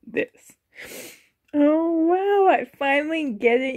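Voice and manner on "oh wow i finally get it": excited. Real, not acted. Overjoyed seeing doll display.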